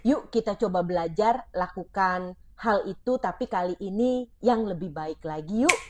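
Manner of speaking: put-on a parent encouraging a child to try again, gently; gentle parent. Shown as a demonstration. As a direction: coax the child kindly. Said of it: "Yuk ganti kata-katanya menjadi".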